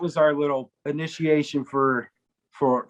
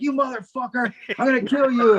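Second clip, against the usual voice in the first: higher-pitched mock threat; retold anger; 7 semitones higher than usual. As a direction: imitate a furious bandmate grabbing the prankster. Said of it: "he was so mad".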